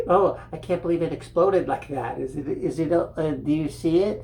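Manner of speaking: mock panic about goo in her hair; startled doctor. Doctor asking nurse if goo is in her hair, panicked. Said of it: "she's like".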